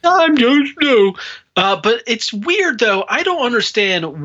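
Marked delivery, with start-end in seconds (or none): 0.0-1.1 high, slow mocking baby voice; mock him like a whiny baby. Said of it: "doing the baby voice".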